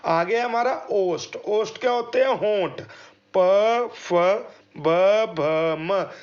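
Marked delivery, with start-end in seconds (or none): 3.4-6.1 प फ ब भ म with a firm lip burst; lip sounds demo. Shown as a demonstration. Teacher demonstrating lip consonants for students. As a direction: pop each lip consonant clearly. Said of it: "होंठ है वो गोल हुए जा रहे हैं".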